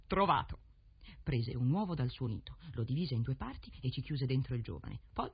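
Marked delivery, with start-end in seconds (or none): 0.1-0.6 loud, higher cry of discovery; sudden raised crow's eureka; crow's croaked exclamation. A narrator's reading. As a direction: exclaim it as the crow, suddenly louder. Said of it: "Alla fine gracchiò".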